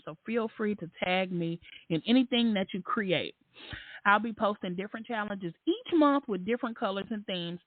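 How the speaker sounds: lightly voiced cheery poster; mild mock read of her post; hint of a chirpy poster voice; put-on voice. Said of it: "consider it voice acting".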